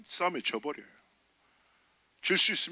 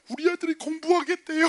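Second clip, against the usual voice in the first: higher and louder with joy; excited mother; 12 semitones higher, 5 dB louder than usual. Retold or imitated. Mother tells the pastor her son will study, excited. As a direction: blurt the good news.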